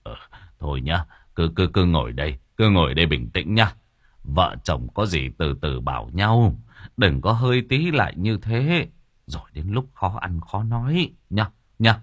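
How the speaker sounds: calm her down gently, like a kindly elder; a hint of a fatherly neighbour settling things; soothing old man.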